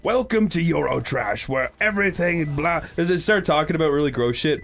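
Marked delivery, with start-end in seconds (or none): 0.0-2.8 lightly voiced show host; TV presenter. Imitating Eurotrash's opening for friends, mock presenter.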